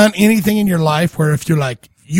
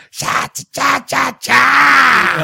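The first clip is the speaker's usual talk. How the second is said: mock yell; 6 semitones higher, much slower than usual. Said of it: "just went, "You know what?".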